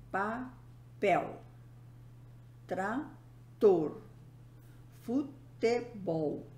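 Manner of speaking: "papel", "trator", "futebol" split, landing on the final syllable; stress on last syllable. Shown as a demonstration. Teacher giving oxytone examples, last syllable stressed. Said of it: "sua última sílaba".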